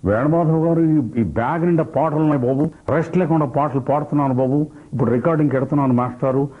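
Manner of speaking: lightly mimicked playback singer chatting; Ghantasala. Shown as a demonstration. Busy singer telling a mimic about his recordings, impersonated chat. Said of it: "Ghantasala గారి voice వచ్చిందన్న".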